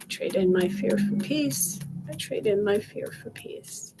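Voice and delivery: steady, rhythmic repeated affirmation; guided affirmation. Acted. Coach leading viewers through tapping, calm chant.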